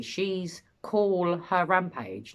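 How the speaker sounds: "call" stretched and stressed, slowly; slow emphasis on call. Shown as a demonstration. Host pointing out the missing word, stressing call. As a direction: lean on "call" in "She's call her rampage". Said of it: "Not we call her rampage".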